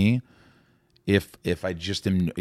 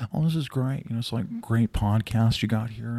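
drawling, lightly voiced impression; Owen Wilson. Impressionist complimenting the podcast, Owen Wilson impression. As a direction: stretch it out, easy-going. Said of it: "I always think of Owen Wilson".

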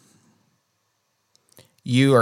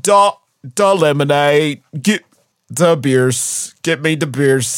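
lightly put-on Chicago accent, barking for beer; a hint of a Chicago dad demanding beers; slower than usual. Host voicing Michael Flatley at home, lightly put-on Chicago accent. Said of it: "now Chicago is the accent that Michael Flatley has".

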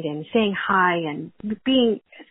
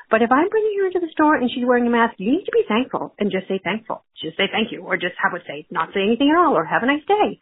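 exasperated rant; 4 semitones higher than usual. Real, not acted. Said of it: "this is a rant".

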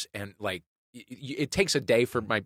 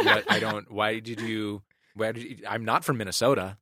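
lightly imitated strong Midwestern accent; mother's Midwestern accent; 4 semitones lower than usual. Son imitating his mother missing the joke, Midwestern accent. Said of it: "she has a very strong Midwestern accent".

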